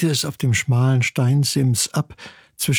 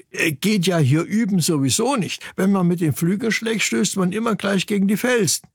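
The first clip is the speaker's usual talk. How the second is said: higher little-brother voice making excuses; lightly voiced cocky chick; 6 semitones higher than usual. Chick Ingmar argues there is no room to practise, protesting. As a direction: argue back as a young bird.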